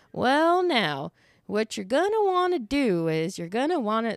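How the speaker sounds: lightly voiced Southern grandpa; a hint of Southern accent, opening on a high "well"; grandpa's Southern accent. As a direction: imitate a folksy Southern old-timer. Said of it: "a little bit more of a Southern accent".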